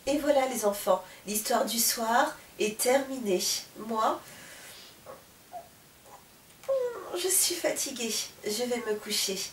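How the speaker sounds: put-on soft, tired goodnight to the children; storyteller saying goodnight to the children, softly and tired; sleepy goodnight. A narrator's reading. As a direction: wind down gently, sleepily. Narrator closing bedtime story.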